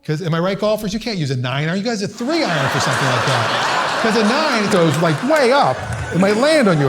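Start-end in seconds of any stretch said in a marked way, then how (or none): 4.0-6.9 excited. Acted. Golf shot goes way up.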